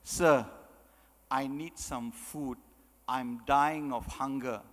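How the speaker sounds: low, slow, weak plea; pleading hungry child. Acted. Hungry child begging past president for food, weakly pleading. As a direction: beg slowly, as if drained by hunger. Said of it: "Hungry child comes to you".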